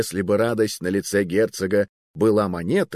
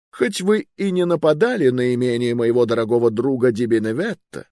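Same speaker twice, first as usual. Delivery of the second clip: high, imperious sentencing; stern royal verdict; 4 semitones higher than usual. Acted. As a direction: pass judgement coldly. King pronounces punishment.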